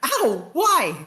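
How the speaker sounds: pained yelp. Acted. Captain gets punched on the head, high pained yelp.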